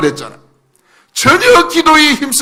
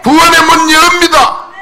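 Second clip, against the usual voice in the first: impassioned crying out; 3 semitones higher than usual. Shown as a demonstration. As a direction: proclaim each phrase with rising force. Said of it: "그 감정으로 외칠 때".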